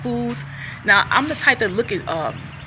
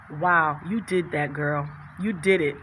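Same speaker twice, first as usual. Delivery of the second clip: proud self-talk; 4 semitones lower, 4 dB quieter than usual. Pretend. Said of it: "look into the mirror and say".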